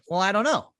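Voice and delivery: mock sheepish client; clueless shrug. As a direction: play the client caught out.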